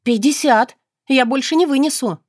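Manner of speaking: heated counteroffer in a haggle; indignant haggling. Acted. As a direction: bargain hard, outraged. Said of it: "подскочив на месте".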